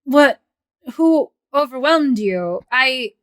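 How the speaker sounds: sharp startled question; alarmed shout. Acted. GM voices Rico in alarm.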